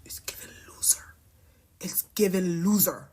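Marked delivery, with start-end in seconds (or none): 0.0-1.1 catty. Real, not acted. Whispered then repeated.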